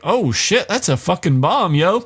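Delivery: high, alarmed blurt; mock panic; startled alarm. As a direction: gasp it out seeing the bomb. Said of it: "She's like".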